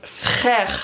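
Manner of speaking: drawn-out, eye-rolling "frère"; fed-up falling "frère"; exaggerated exasperation. Shown as a demonstration. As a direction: stretch it out as if rolling your eyes. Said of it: "it's, like, really heavily exaggerated".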